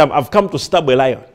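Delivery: laughing while voicing the foolish boast; laughing mock challenge. Mocking a fool who goes to stab a lion, laughing. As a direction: chuckle through the silly line.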